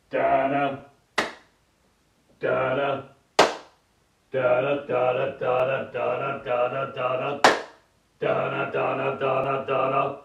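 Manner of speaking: crocodile improvisation. Pretend. Improvising a crocodile for the camera, soft low humming. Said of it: "my improvisation of a crocodile".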